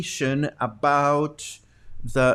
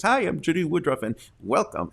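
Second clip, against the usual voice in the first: lightly voiced TV anchor greeting, quick and a bit bouncy; a hint of a newscaster saying hello; Judy Woodruff; 3 semitones higher than usual. Teacher lightly imitates her favorite anchor's greeting: mild anchor voice. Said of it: "little bop whenever she says hello".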